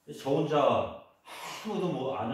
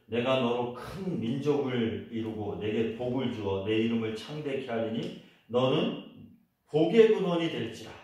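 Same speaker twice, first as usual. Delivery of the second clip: scripture reading. Acted. Reciting scripture to congregation.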